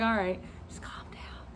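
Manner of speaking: whispered self-talk, low and soft; self-calming. Retold or imitated. Nervous student talking to self before driving, hushed. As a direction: whisper to steady your own nerves.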